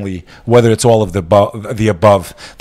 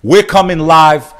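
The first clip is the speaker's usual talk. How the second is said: big, high, slow hype call; much higher and louder, drawn out; rallying hype; 9 semitones higher, 5 dB louder than usual. Real, not acted. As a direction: stretch it out like a rally chant.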